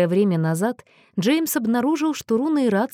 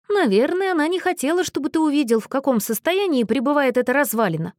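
higher voice, yawning through the words; 7 semitones higher than usual. A narrator's reading. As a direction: let a yawn stretch the words. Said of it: "зевнул Мэтью".

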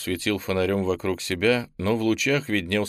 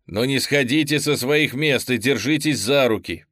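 commanding; 3 semitones higher, 4 dB louder than usual. Acted. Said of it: "приказал Облаков".

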